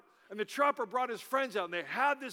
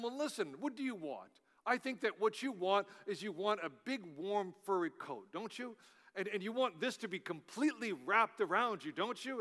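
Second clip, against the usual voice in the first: put-on softer, coaxing bear with light British accent; 4 dB quieter than usual. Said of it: "in a British voice".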